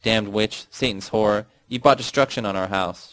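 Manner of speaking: mild mock scream of a cursing mother; mother screaming curses. Mother cursing her daughter, a mild mock scream. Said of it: "she screamed".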